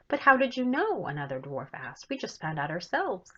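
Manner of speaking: put-on lively read-aloud for children; story narration. A narrator's reading. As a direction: tell the story brightly to young listeners. Author reads her chapter book aloud.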